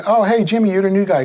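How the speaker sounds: high, loud, bright welcome to the new guy; cheery manager greeting. Retold or imitated. Store manager cheerfully greeting the new hire, high and loud. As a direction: greet him like an upbeat boss.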